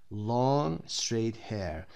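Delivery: very slow, careful repeat of Long straight hair; the phrase stretched slowly for learners. Shown as a demonstration. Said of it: "She has long straight hair".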